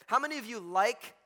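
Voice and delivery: emphatic LIKE at the end; stress on LIKE. Real, not acted. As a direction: land on "like" and hold it up questioningly. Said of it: "emphasis on the word like".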